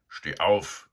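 loud call to wake him. A narrator's reading. Sow waking Eduard, a loud call. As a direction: bark him awake. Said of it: "sagte da eine laute Stimme".

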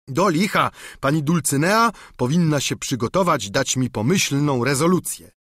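lightly voiced eager peasant squire; simple squire pleading with his master; Sancho the squire.

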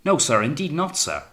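high, urgent protest of innocence; sudden alarm. A narrator's reading. Wellard protesting to his accusing captain, alarmed. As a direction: protest quickly, pitched well up. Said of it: "said Wellard in sudden new alarm".

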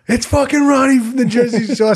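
high excited mock fan voice; imitated starstruck fan. Kid recognizing Ronnie in the apartment, excited high mock voice. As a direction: squeal it like a dazzled kid. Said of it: "And he goes".

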